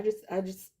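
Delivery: laughing through embarrassment; giggling as she admits it; embarrassed laugh. Real, not acted. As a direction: say it with a sheepish laugh. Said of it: "I also feel very embarrassed".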